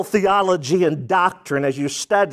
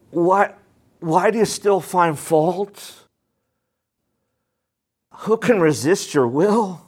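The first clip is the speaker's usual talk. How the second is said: humble, soft asking. Shown as a demonstration. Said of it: "a heart that's humble and soft".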